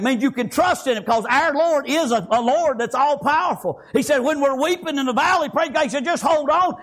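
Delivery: full-voiced, chanted sermon delivery; fervent preaching. Real, not acted. Preacher urging congregation to draw strength from God, fervent preaching.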